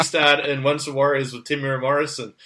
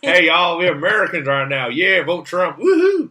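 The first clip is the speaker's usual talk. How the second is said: redneck American; 3 semitones higher, 4 dB louder than usual. Retold or imitated. Kiwi mimics Trump-voting Americans, mock redneck accent. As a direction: ham up a Yankee redneck accent. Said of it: "whenever anyone does American".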